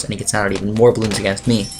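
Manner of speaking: ordinary talk, nothing marked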